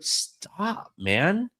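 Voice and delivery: high-pitched, pleading imitation of a ref; exasperated referee. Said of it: "eventually referees just like".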